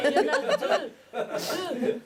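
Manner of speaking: high, loud laughing cry; excited laughing squeal; shrieked punchline. Retold or imitated.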